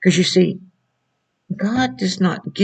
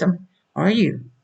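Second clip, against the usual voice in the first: usual speaking voice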